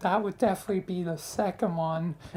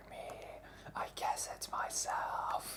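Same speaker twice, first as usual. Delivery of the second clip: hushed, soft, breathy whisper. Saying only they may whisper, the speaker whispers to themselves. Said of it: "I'm whispering to you".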